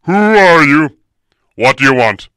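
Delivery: booming, gruff challenge. A narrator's reading. Huge man challenging strangers at his house, gruff and booming. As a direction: demand it very loudly and gruffly. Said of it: "he asked gruffly".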